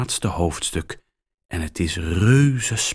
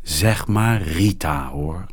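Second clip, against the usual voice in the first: vriendelijk. Acted. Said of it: "zegt ze vriendelijk".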